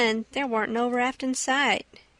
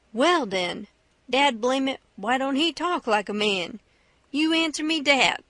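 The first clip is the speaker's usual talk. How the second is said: lightly voiced exasperated debater; mildly triumphant comeback; Jim turning the argument. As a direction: build to a firm challenge in dialect.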